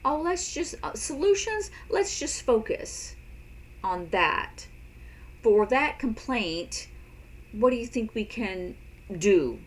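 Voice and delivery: perky high voice steering to solutions; high cheerful demo. Shown as a demonstration. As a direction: sing it out high and upbeat to redirect. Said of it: "if they're just complaining".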